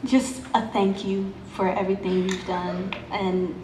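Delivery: choked-up nervous fan; words catching, barely holding it; stage fright. Real, not acted. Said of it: "I can't even talk".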